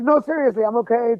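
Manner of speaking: holding back tears. Retold or imitated. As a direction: retell insisting through held-back tears. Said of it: "Trying not to cry".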